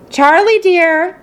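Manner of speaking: mother calling her son to bed from the doorway. Acted. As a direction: call him across the room. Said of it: "Missus Bucket called out".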